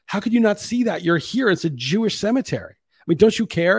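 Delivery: high, insistent mock guilt-trip; imitating pushy wife. Mimicking his partner pushing him to see the cemetery, high and insistent. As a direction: lay the guilt on in her voice. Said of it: "She's like".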